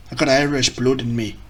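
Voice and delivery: badly faked Irish accent; terrible Irish accent. Shown as a demonstration. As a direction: try an Irish lilt and get it wrong. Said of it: "That was terrible as well".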